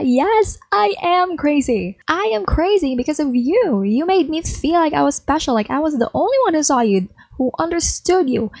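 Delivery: high unhinged confession. Acted. Eve admits she is crazy.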